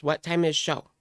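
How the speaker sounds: lightly mimicked, talking down; a touch of condescension; mocking her condescending tone. Telling viewers to hear this, light mock imitation. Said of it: "You guys have to hear this".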